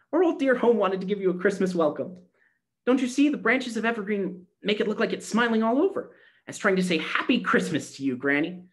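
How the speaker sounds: put-on high, happy child's voice; joyful little girl. A narrator's reading. Gretchen joyfully shows Granny the decorated door, high. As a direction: show off the surprise.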